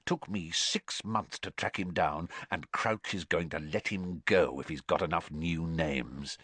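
confiding under the breath; Moody murmuring to Dumbledore; breathed quietly. A narrator's reading. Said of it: "Moody breathed quietly".

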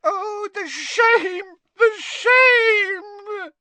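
tearful, very high wail, building to a cry; Winky. Acted. Freed house-elf pining for her master, tearful wailing. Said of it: "tears leaking down her face".

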